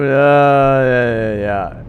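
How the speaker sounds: ordinary delivery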